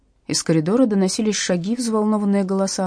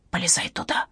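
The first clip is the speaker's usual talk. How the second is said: whisper; 4 dB quieter than usual. A narrator's reading. Hiding, urging friend into closet.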